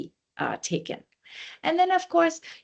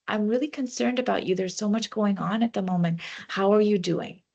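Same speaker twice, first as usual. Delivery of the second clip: gently concerned, slightly quicker; caring. Shown as a demonstration. Demo of caring check-in with a struggling colleague, gentle concern. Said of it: "Come from a place of care".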